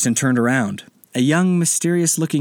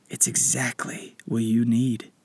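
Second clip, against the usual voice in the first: slow breathy whisper; mysterious whisper; 5 dB quieter, slower than usual. Acted. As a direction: whisper it like a secret blessing. Spirit guide whispers.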